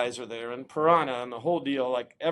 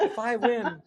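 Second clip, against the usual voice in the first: higher, pumped-up insistence; eager plea; 8 semitones higher, slower than usual. Retold or imitated. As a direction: press the point, keyed up. Repeating the bargain to the owner.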